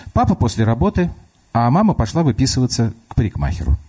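put-on a small girl reasoning through the door; child voice. Little girl talks to grandma through the locked door, child voice.

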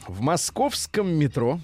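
dictating. Retold or imitated. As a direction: read it like a metro announcement. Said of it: "кавычки открываются". (диктующим голосом, как объявление в метро)

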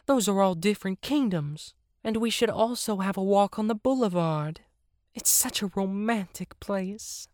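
high, put-on hippo voice; romantic hippo. Hippo longs for a boulevard walk, high and romantic. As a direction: dream aloud in a high character voice.

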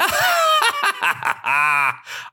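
high cackling ha-ha laugh; loud acted laugh. Shepherd boy mocking fooled villagers, loud high laugh. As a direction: burst into a showy, high laugh. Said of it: "laughed loudly".

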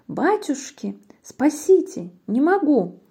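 high, mildly acted plea for help; frightened cry. Owl sees the Gruffalo, frightened high plea. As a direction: plead in mock fright.

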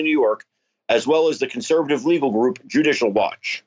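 breaking news bulletin read; announcer voice. Shown as a demonstration. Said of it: "Use your announcer voice".

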